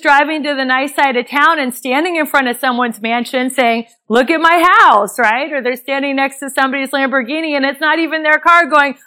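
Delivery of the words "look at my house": mocking show-off. Mocking social media boasters.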